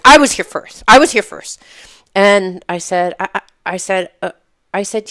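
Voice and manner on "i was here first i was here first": imitating a shout. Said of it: "And he's like".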